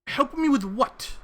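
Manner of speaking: loud suspicious challenge. Acted. Man suspicious of offer.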